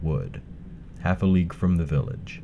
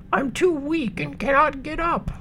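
a weak grandmother calling out; old woman voice. Acted. Grandmother speaks.

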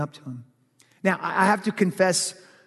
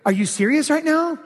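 incredulous; 9 semitones higher than usual. Retold or imitated.

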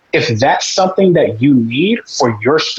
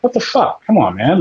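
exasperated disbelief; 6 semitones higher than usual. Real, not acted. Exasperated at fried chicken excuse.

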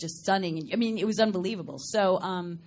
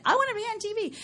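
wannabe star; 12 semitones higher, faster than usual. Retold or imitated. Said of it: "how many people have said".

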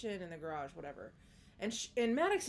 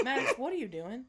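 "Maddox, what are you doing?" said higher and louder, a stern mom's demand; 4 semitones higher, 4 dB louder than usual. Retold or imitated. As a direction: call her name like a suspicious parent. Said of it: "I'm gonna use my exact tone".

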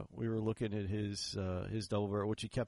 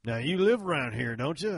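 put-on loud, raised old Southern seller; old country boy; 8 semitones higher, 12 dB louder than usual. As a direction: imitate a country old-timer sizing up a stranger. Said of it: "from an old boy out there".

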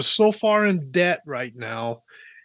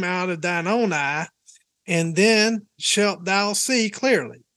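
slow Southern preacher cadence; measured Bible reading in a Southern accent; slower than usual. Shown as a demonstration. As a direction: read scripture like a Southern preacher. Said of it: "nothing better than a Southern preacher".

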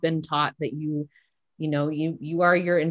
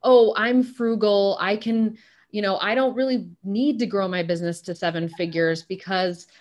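imitating frugal women; 4 semitones higher than usual. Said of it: "It's like women who say".

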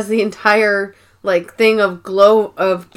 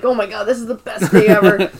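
excited; faster than usual. Retold or imitated. Jim thrilled, retold.

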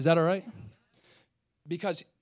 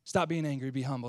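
gentle repeat; 5 semitones lower, 3 dB quieter than usual. Real, not acted. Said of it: "I think he might be saying".

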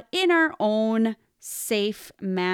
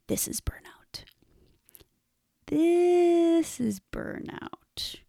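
breathy whisper, barely voiced; hushed, slow whisper of realization; 8 semitones higher, slower than usual. Real, not acted. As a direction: let it slip out as a stunned whisper. Realizing burnout, near tears.

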